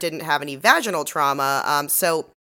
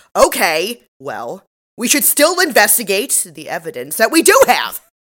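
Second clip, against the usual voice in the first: louder, half-raised voice, only partly yelling. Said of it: "raises his voice and goes".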